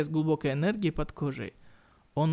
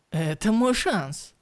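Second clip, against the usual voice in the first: eager exclaim; 4 semitones higher, 4 dB louder, slower than usual. Acted. Hero exclaims mid-fight.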